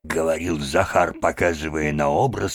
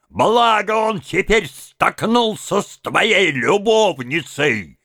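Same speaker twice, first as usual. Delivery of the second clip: bawling; 14 semitones higher, 5 dB louder, slower than usual. A narrator's reading. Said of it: "вопил Тарантьев".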